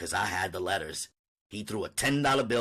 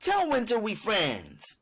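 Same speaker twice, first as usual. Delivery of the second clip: slow wheedling plea; 11 semitones higher, slower than usual. Acted. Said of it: "Mama said".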